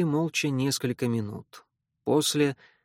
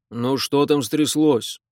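displeased; 6 dB louder, slower than usual. Acted. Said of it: "недовольно спросил".

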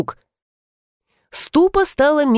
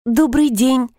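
lightly purred, higher greeting; affectionate purr; 4 semitones higher than usual. A narrator's reading. Uninvited guest greeting a startled couple, affectionate purr. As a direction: greet them sweetly, a touch purring. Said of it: "ласково промурлыкала я".

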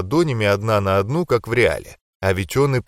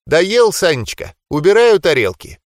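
higher, sweet grandma voice; 6 semitones higher, 4 dB louder than usual. Acted. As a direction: voice a loving granny offering food.

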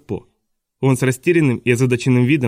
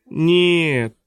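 higher, slow objection; mild protest; 6 semitones higher, slower than usual. A narrator's reading. Teacher defends the children to his boss, higher mild protest. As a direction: protest mildly, stretched out and raised. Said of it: "запротестовал мистер Римора".

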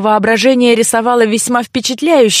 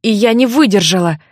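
ordinary delivery, nothing marked

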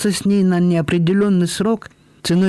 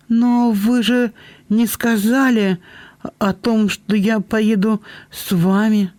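put-on reminding girl; 7 semitones higher, slower than usual. A narrator's reading. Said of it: "напомнила Белинда".

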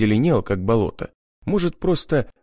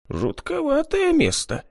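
high, slow, uneasy voice; uneasy shudder. A narrator's reading. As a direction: shiver the words out, spooked by the swamp. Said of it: "поёжился Зиновьев".

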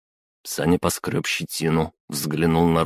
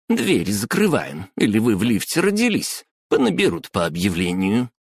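high scolding clerk voice; 4 semitones higher than usual. Acted.

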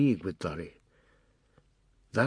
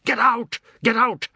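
put-on much higher, louder boy's scream; 12 semitones higher, 8 dB louder than usual. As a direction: hurl it out the window at the men. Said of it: "and screamed".

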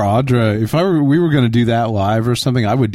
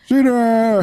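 calling out; 10 semitones higher than usual. Real, not acted. Echoes the call.

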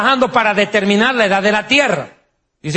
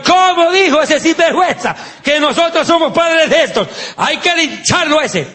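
offended monkeys demanding a lynching; outraged monkeys; 7 semitones higher than usual. Acted. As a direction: ham up the furious apes.

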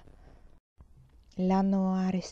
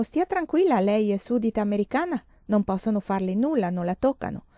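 mock reassuring official; 2 semitones higher than usual. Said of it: "Al consolato americano le dicono".

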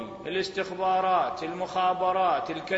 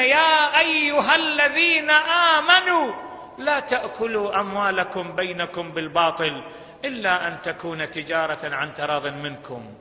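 Quran recitation. Acted. Preacher citing scripture to congregation, reverent recitation. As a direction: intone the verse reverently.

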